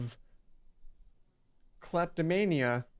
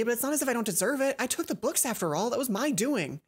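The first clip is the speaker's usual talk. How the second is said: put-on higher girl's voice, resolute; determined Mai; 6 semitones higher than usual. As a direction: Mai deciding to confess.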